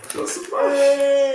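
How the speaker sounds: a dad offering mush in a squeaky voice. Real, not acted. Coaxing baby to eat.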